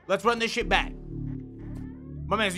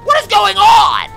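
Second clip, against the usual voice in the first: loud, high, slow bewildered cry; baffled shout; 10 semitones higher, 14 dB louder, slower than usual. Real, not acted. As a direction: shout it out in disbelief. Gamer baffled by chaos.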